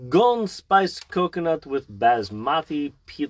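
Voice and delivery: slow, badly faked Indian accent; terrible Indian accent. Parent reading curry bowl label, terrible Indian accent. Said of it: "that was a terrible accent".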